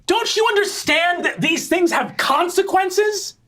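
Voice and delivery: very high, slow and exasperated; high shouting sister voice; scolding older sister. Acted. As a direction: berate a foolish younger brother.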